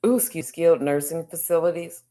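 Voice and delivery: talking through hiccups; words broken by a hiccup. Real, not acted. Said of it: "I'm hiccuping".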